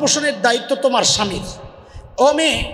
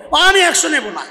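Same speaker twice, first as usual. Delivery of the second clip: put-on sulky child; 4 semitones higher than usual. Sulking child refuses hundred taka.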